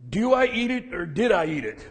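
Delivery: a lightly voiced gruff old man, teasing, with a laugh; playful old-timer joke, half laughing; gruff grandpa voice. Grandfather jokes about the pizza in a light gruff voice. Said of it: "gruff voice that he had".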